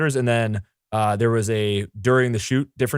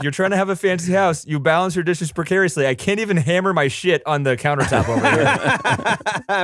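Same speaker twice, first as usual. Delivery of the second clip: higher, slow, laughing complaint; mocking character voice; 5 semitones higher than usual. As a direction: whine it out while laughing.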